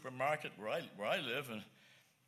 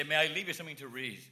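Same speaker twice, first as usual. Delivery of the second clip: a fast, bright little question to a stranger; quick friendly offer; faster than usual. Retold or imitated. Preacher showing how he offers tracts to toll booth guys, quick. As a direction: rattle it off like a handout line. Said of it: "I say".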